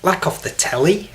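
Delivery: a poor stab at Scouse off the telly; attempted Scouse. Shown as a demonstration. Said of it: "Not very good at the old Scouse".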